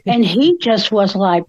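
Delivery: usual speaking voice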